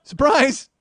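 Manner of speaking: surprise! shouted through a laugh; gleeful, laughing shout. Retold or imitated. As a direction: crow it while laughing. Punchline repeated, laughing.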